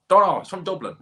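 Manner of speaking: high, loud Irish country voice; mocking answer in a rural Irish accent; second local, Irish accent. The mate answers Mick, high loud Irish accent. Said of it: "That's what they're like".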